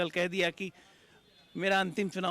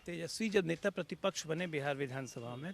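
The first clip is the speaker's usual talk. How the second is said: ordinary talk, nothing marked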